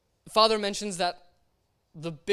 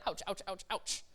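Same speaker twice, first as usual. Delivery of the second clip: mock ouch; 10 dB quieter than usual. Hot sand burning feet.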